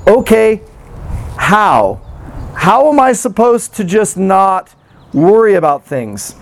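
exasperated question. Retold or imitated. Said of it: "And my response is".

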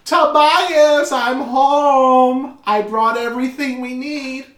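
loud, high sing-out through the house; high, hollered motherly greeting; calling out home. Acted. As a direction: call to your son as you arrive. Mother calls son on arriving home.

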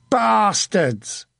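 high, drawn-out cry of abuse; shouted curse. A narrator's reading. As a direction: keep hurling the curse, stretched and high. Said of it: "he kept shouting".

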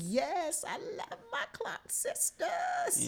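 high, slow, thrilled shout; excited shout. Real, not acted. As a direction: cry it out with fan joy. Excited about favorite gospel group.

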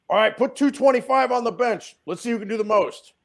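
high-pitched hyped-up dare; drunken challenge. Retold or imitated. Drunk guys at one in the morning, hyped challenge. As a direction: lightly play a guy egging mates on.

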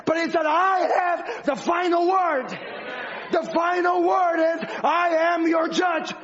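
fiery preaching. Acted. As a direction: drive it home like a revival preacher at full force. Builds into full-force preaching.

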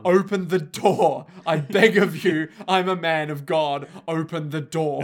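desperate plea. Acted. Priest begging guard.

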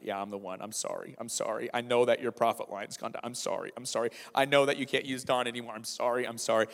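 low, repeated abashed apology; mumbled-down, hangdog apologizing; acting out a string of guilty sorries; retold shame. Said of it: "I would just feel that shame".

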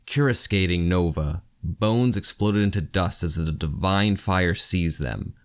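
measured, even reading of an epic battle; story narration. A narrator's reading. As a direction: read it like the audiobook narrator. Reads novel excerpt aloud.

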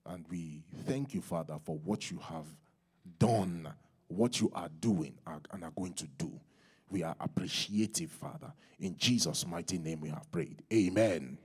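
soft, low prayer voice; closing prayer. Real, not acted. Preacher thanking the Father in prayer, soft and reverent. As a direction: pray it quietly and reverently.

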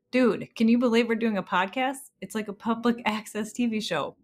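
a hint of an excited Garth; mild surfer-dude sidekick. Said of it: "And I'm Garth".

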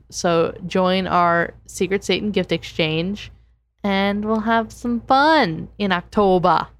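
slow promo announcement. Real, not acted. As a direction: read it like a plug. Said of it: "that was just the announcement".

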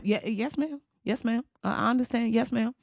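mock timid underling; cowed staffer. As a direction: shrink back and agree fast. Elders cowed by Maxine.

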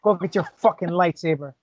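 Joe Pesci impression. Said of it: "a Joe Pesci voiced Hutt".

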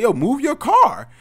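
loud, high, drawn-out order; retold shouted demand; confrontational demand. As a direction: call it out forcefully, stretching the words. Confronting the driver blocking the garage.

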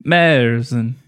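"Merzen" with a drawn-out umlaut vowel; accentuated umlaut. Shown as a demonstration. Host trying the German beer name, "Merzen" with an exaggerated umlaut. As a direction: lean hard on the first vowel of "Merzen". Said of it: "accentuate the umlaut".

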